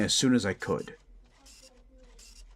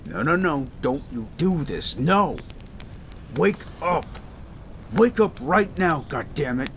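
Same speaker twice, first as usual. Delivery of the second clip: panicked pleading; 6 semitones higher than usual. Acted. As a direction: shake them awake in rising panic. Partner loses consciousness.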